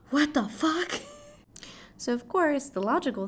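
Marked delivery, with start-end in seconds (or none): 0.0-1.0 mock shock.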